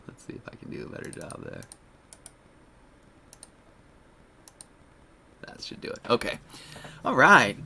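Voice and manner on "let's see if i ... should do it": whispering under the breath while fiddling; whispered aside. Real, not acted. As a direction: mutter it to yourself, voiceless. Muttering while fixing the chat.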